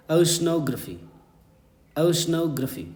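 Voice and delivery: careful, repeated teacher's model of "oceanography"; correct pronunciation. Shown as a demonstration. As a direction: say "oceanography" with a gliding English oh and "gruh-fee" ending. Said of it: "this is the correct pronunciation".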